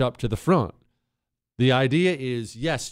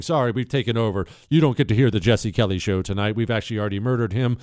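Chinese radio voice; 5 semitones lower, faster than usual. Retold or imitated. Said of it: "some Chinese guy saying".

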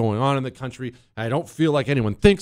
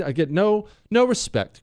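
high-pitched mock-aggrieved complaint; playful wounded grievance, pitched up; Rodney Dangerfield; 7 semitones higher than usual. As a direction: whine it like a put-upon comedian. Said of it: "I sound like Rodney Dangerfield".

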